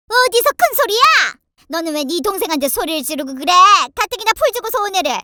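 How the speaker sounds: high, quick, indignant rebuke; scolding mother-in-law. Acted. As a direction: scold your son in defence of your daughter. Mother-in-law scolds her son. (아들을 나무라는 시어머니의 호통)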